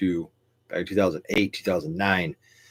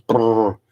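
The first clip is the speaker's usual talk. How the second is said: loud rolled brrr; imitated rapid-fire noise; 3 semitones higher, 6 dB louder than usual. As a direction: roll out a burst like rapid fire. Imitates a flood of video flags.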